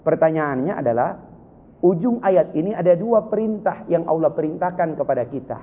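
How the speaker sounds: ordinary talk, nothing marked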